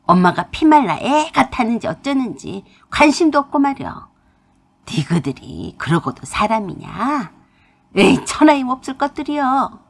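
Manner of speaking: mother pouring out years of grievance; mother raging in dialect. Acted. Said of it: "소리를 고래고래 지르셨어요". (사투리로 원망을 퍼붓는 엄마)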